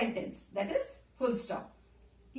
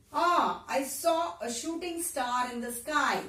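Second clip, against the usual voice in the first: surprise; 2 semitones higher, slower than usual. Shown as a demonstration. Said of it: "there is a surprise there".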